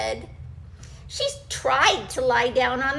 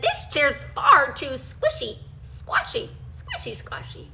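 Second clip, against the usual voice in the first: squishy squashy singsong. Acted. Goldilocks voiced, too soft chair.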